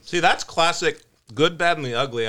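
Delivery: talking with ice in mouth; words round a mouthful of ice; mouth full. Real, not acted. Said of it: "I got ice in my mouth".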